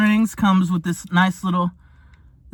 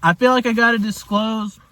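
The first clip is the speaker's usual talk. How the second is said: mouth full; 2 semitones higher than usual. Real, not acted. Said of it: "excuse me for talking with my mouth full".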